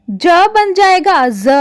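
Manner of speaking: second ज said as z, buzzing; ज as j, then ज as a clear buzzing z; nukta sounds. Shown as a demonstration. Teacher slowly showing pupils ज turning into z. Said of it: "उच्चारण हम और ढंग से करेंगे".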